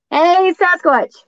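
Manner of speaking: slow drawn-out call into the woods; calling Sasquatch. Pretend. She calls out to Sasquatch, slow and high.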